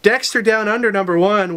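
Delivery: a lightly cheesy, hammed-up promo read in the own accent; mock-cheesy announcer read, no Australian accent; cheesy version. Shown as a demonstration. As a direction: sell the title like a corny ad, only a touch. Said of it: "now let's do the cheesy version".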